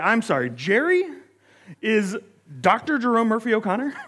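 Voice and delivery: retold stunned question, halting then rising; dumbfounded fan double-checking a name; amazed disbelief. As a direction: act out stopping short in amazement, voice climbing. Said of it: "I was amazed".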